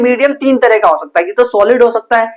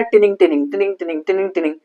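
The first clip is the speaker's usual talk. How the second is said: quieter tinning tinning, fading away; soft pendulum ticking; 2 semitones lower, 6 dB quieter, faster than usual. Shown as a demonstration. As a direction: mimic a clock pendulum gently swinging. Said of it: "ऐसे ऐसे करके होता है". (घड़ी के pendulum की धीमी टिनिंग)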